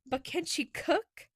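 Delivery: slow, teasing and wry; amused teasing. A narrator's reading. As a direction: tease her lazily. Will teases amused.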